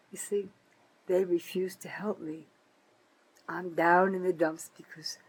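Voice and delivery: breathy confiding whisper. Real, not acted. Complaining to viewers that nobody helps her, whispered. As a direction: drop to a hushed whisper as if sharing a secret. Complaining she is denied help.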